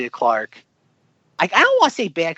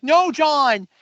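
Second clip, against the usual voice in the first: imitated Kyle; 9 semitones higher than usual. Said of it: "Kyle's like".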